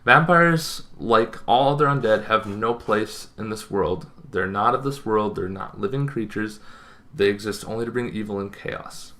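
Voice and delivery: even narration with long pauses; formal lore reading. Acted. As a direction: read it like a solemn monster-manual entry. Reads out vampire lore, formal.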